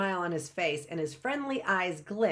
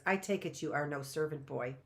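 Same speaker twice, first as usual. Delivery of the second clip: softer, with a resigned sigh; sighing resignation; 4 semitones lower, 5 dB quieter than usual. Acted. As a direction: let it out on a sigh, giving up. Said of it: "she sighs and says".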